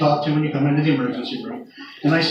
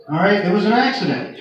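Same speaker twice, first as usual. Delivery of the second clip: exasperated relay; 3 semitones higher than usual. Retold or imitated. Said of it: "Really, man?".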